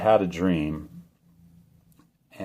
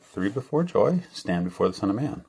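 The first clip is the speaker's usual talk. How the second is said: very kind voice; 3 semitones higher than usual. Retold or imitated. Dreamer retells the voice he heard, very kindly. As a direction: gently lift it, like a kind voice from above. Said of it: "in a very kind way".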